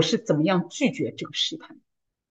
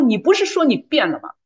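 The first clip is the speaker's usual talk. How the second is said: slightly raised, mildly irked quote; retold mild annoyance; 4 semitones higher than usual. Retelling husband's retort in the car, mildly annoyed. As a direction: imitate a husband getting a bit cross. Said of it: "我先生也有点火了".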